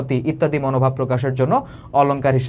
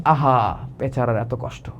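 softer, lower sigh of pity; 5 semitones lower, 4 dB quieter, slower than usual. Shown as a demonstration. Teacher shows pity for someone suffering, soft and low. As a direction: feel for the poor soul. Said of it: "তোমারও দুঃখ লাগতেছে".

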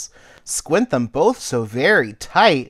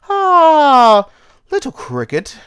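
put-on rumbling old caterpillar; 4 dB louder than usual. Old caterpillar gently warning Cricket, rumbling. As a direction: rumble it like a trombone. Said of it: "he rumbled like a bass trombone".

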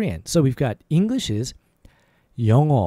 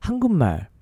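syllables merged into one word; faster; much faster than usual. Shown as a demonstration. Teacher modelling the word for Korean for learners, faster. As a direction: say it quickly, without gaps. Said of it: "Faster is".

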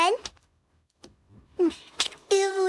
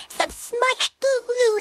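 drawn out; 3 semitones higher, much slower than usual. Real, not acted. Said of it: "Stop laughing at me".

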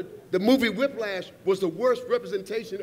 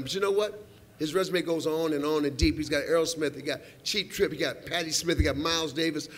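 lower, measured presenter read; award introduction; 5 semitones lower than usual. Real, not acted. Host introducing a record maker's resume, low presenter delivery. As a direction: read out the honoree's credits in a low voice.

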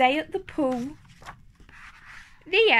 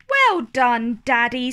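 smiling praise; 4 dB louder than usual. Acted. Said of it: "smiles Mummy Pig".

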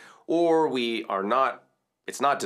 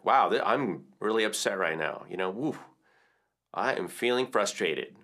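candid self-acknowledgement; name it honestly to yourself; owning the feeling aloud. Shown as a demonstration. Coach modelling how to admit feeling frustrated. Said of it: "acknowledge it".

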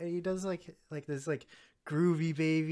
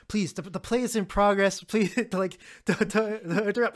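mock angry plea; 4 semitones higher, 5 dB louder than usual. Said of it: "he's like".

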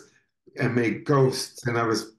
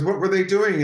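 higher-pitched mom question; retold mom; 8 semitones higher, 3 dB louder than usual. Mom asking her child about the ghosts, retold mom voice. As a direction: lightly voice a mom playing along. Mom plays along in the story.

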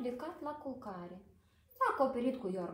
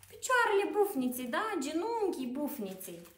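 excited reveal; 5 semitones higher, 5 dB louder than usual. Real, not acted. Answers riddle to children.

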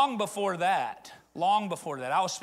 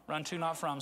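softer echo; 3 semitones lower, 5 dB quieter than usual. Shown as a demonstration. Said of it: "Somebody say it".

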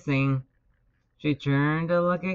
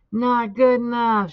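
loud, high shout of disapproval; high, forceful coaching yell; coach's shout; 6 semitones higher, 6 dB louder than usual. A narrator's reading. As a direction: shout it at your racer. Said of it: "shouted his coach".

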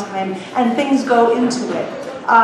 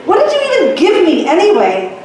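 irritable, quick, higher complaint; peevish; 7 semitones higher, 4 dB louder, faster than usual. Acted. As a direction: snap the question in annoyance. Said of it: "Remy said peevishly".

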